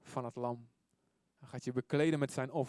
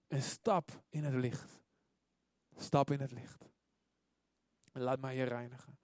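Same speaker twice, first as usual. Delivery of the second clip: softening, lower appeal after the shouting; gentle invitation; 3 semitones lower, 4 dB quieter than usual. Acted. God inviting you to be cleansed, gentle invitation. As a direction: drop down and invite them in softly.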